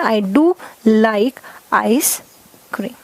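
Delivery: slow emphatic do like ice cream; stress on do. Shown as a demonstration. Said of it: "do आया है emphasise करने के लिए".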